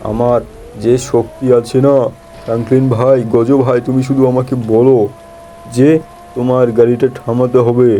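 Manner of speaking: Hulk voice. Acted. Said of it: "আমি হলাম হালকা".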